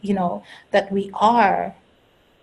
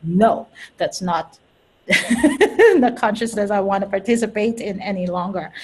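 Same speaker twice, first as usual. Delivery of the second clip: firm, laughing refusal. Shown as a demonstration. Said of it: "I can consciously say".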